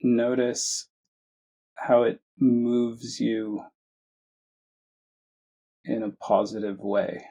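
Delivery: measured meditation guidance with long pauses; unhurried phrases, each given room to settle; guided meditation. Acted. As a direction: guide listeners gently, leaving space between phrases. Leads a guided meditation after chat.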